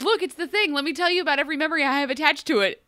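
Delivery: put-on eager kid rattling on fast; excited child. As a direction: gush like a kid showing off. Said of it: "your child runs up to you and be like".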